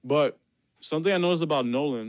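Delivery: talking through a mouthful of pizza; words round a bite of food; chewing while talking. Real, not acted. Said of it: "I'm also eating pizza while I'm doing it".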